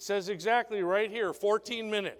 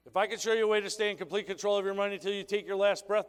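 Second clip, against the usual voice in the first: fast recap of the pitch; faster than usual. Shown as a demonstration. Trainer rereading the pitch quickly to the audience. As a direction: rattle the question off fast. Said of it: "what's the most important word there".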